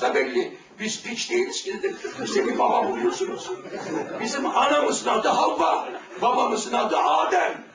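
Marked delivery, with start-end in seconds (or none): 4.2-7.6 proclaiming shout. Real, not acted. Preacher shouting to the crowd about Adam and Eve. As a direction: ring it out to the hall.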